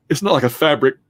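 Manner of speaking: talking through a yawn; words stretched by a yawn. Real, not acted. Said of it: "I'm sorry I'm yawning".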